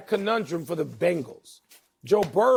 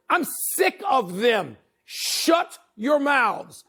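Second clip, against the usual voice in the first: fed-up rant; 4 semitones higher, slower than usual. Real, not acted. Ranting at Eagles fans.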